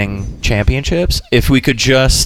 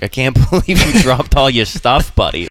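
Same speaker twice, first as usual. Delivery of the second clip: put-on light Boston accent, teasing a clumsy buddy; a hint of a Boston local ribbing a friend. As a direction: toss it off in a mild Boston accent. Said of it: "Oh, the accent".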